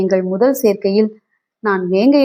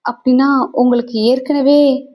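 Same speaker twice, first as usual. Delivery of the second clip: higher-pitched, dismayed question left hanging; shocked question; 4 semitones higher than usual. Acted. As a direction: ask it in dawning shock. Wife's shocked unfinished question to husband. (அதிர்ச்சியான கேள்வி)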